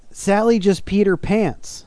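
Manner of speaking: put-on a slow, high, whiny little boy; high slow wailing kid. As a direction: mimic the upset child, dragging it out. Kid crying to grandmother.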